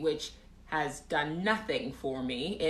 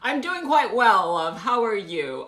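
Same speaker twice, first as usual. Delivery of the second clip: higher, louder mock-British greeting; chirpy British accent; 4 semitones higher, 8 dB louder than usual. Streamer answering a viewer, hammed-up British accent. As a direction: ham up the British pleasantries.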